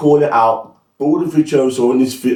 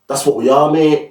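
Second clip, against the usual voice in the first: lightly imitated, unconvincing Australian accent; bad Australian accent; 2 semitones higher than usual. Football fan mimicking the manager's catchphrase, poor Australian accent. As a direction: attempt a rough Australian accent on the quote. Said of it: "In, in Australian accent, I've got a shit Australian accent".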